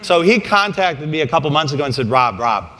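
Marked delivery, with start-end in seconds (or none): 2.1-2.7 fight promoter. Retold or imitated. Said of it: "in promoter voice".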